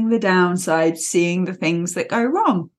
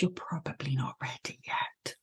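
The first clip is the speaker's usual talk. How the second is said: protective Kanga; 5 semitones lower than usual. Retold or imitated. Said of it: "Kanga's the one that says".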